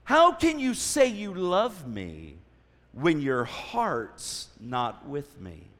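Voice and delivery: slow, drawn-out mock complaint; Delilah. Delilah pressing Samson about his heart, slow mild whine. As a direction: stretch each phrase, lightly whining, dropping at the end. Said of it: "Delilah in her whiny voice".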